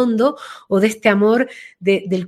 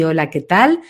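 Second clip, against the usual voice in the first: lower, settled greeting; lower, grounded voice; 5 semitones lower than usual. Retold or imitated. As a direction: say it low and centred. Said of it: "la voz le bajó". (Blanca ya con la voz grave, tranquila)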